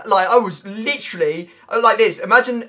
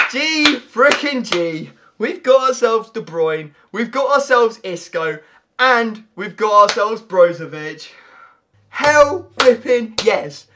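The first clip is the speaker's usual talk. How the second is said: slow triumphant gloating; 2 semitones higher, 5 dB louder, slower than usual. Real, not acted. Celebrating pulled cards.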